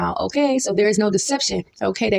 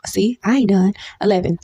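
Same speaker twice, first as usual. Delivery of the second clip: whispered aside. Real, not acted.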